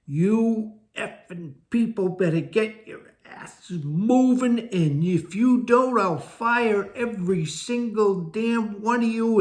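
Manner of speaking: screamed high and loud, slow and raging; a boss bellowing threats at the whole office; furious scream. Retold or imitated. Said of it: "he screams at the top of his lungs".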